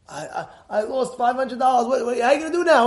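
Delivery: normal talking voice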